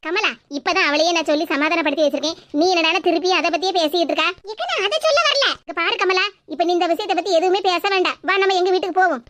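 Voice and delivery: neighbour woman. Acted. Neighbour hushes Kamala.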